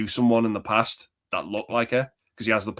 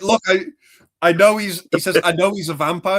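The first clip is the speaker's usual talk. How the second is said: higher, louder insistent quoting; Peter Vincent impression; 8 semitones higher, 7 dB louder than usual. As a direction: plead like a desperate actor. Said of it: "he's like".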